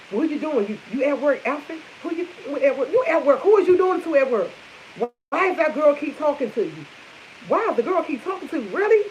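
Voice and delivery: imitating a jealous girlfriend grilling him; mock nagging girlfriend. Girlfriend's nagging phone call retold.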